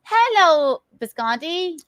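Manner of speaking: high, sung-out hello; set-up greeting. Acted. Woman cues colleague to answer darling, high-pitched greeting. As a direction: greet him high and drawn out. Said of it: "I'll be like".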